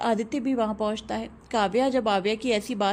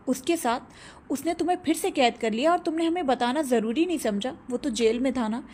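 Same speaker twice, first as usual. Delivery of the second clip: shocked. Acted. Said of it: "वो हैरानी से कहते हैं".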